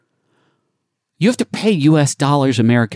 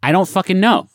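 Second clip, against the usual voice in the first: higher, fed-up retort; exasperated; 7 semitones higher than usual. Real, not acted. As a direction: throw up your hands in frustration. Exasperated answer.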